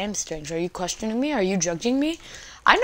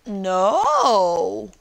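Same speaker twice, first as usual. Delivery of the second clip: playful no; 6 dB louder than usual. Pretend. Playful refusal.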